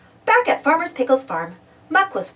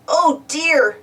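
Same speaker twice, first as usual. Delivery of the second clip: higher, anxious little lament; worried; 4 semitones higher, 3 dB louder than usual. Acted. Muck to Travis in the dark, worried. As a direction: say it with a worried lift.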